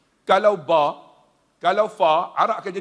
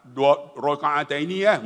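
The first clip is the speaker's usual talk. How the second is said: shopkeeper voice; 5 semitones lower than usual. Retold or imitated. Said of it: "Dia kata apa?".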